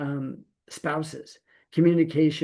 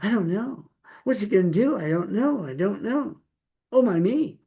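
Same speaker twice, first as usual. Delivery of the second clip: mock panicking god; 5 semitones higher than usual. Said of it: "He's so upset".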